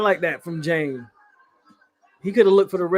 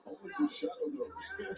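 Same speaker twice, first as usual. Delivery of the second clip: put-on old-time radio announcer; 13 semitones higher, 15 dB quieter than usual. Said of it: "That sounded like an old-time radio guy".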